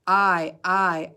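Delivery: "I, I" said like the letter name; teacher modelling the long i sound. Shown as a demonstration. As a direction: say "I" as its own name. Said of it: "Long sound says its own name".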